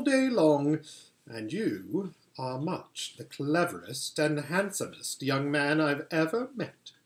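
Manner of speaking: a hint of a sweet, commanding queen; lightly voiced White Witch queen. Queen asking Edmund to bring his siblings, lightly regal. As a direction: coax the boy like a regal enchantress.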